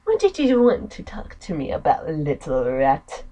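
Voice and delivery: lightly voiced taunt; mocking sister. Sister mocks her brother.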